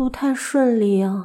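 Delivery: weary, worn-out mumble. After a conversation ends, a character mutters in a tired voice. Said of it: "沙野家以疲惫的声音嘟囔着".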